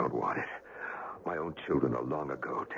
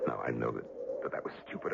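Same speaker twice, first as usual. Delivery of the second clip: weak murmur; 5 semitones lower, 7 dB quieter, faster than usual. Acted. Dying man admits folly.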